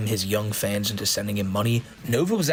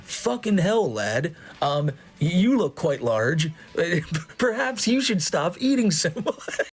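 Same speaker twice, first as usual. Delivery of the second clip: put-on American hamming up a British accent, slow, higher, with laughs; bad British accent; 5 semitones higher, slower than usual. Commentator mocks a cameo reply in a bad British accent. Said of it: "my best American guy doing a British accent".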